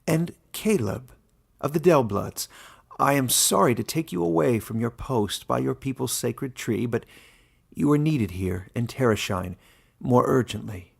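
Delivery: lightly voiced old warden, genial; a genial old ruler opening the meeting. Warden addressing his animal council, lightly voiced and genial.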